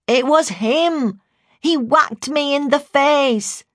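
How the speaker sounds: put-on high, slow child's wail of accusation; wailing child, near tears. A narrator's reading. Jodie telling her carer who hurt her, high tearful wail. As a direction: wail it out, drawing the words long. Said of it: "sounding like she was about to cry".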